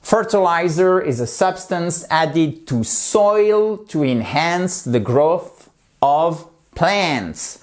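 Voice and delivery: slow, careful model sentence read for learners. Shown as a demonstration. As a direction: read it slowly, for the class to repeat. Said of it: "slow model sentence". (lecture lente et appliquée d'une phrase modèle)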